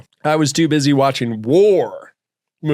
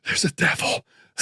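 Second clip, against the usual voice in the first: whisper; 3 semitones higher, 5 dB quieter, faster than usual. Acted.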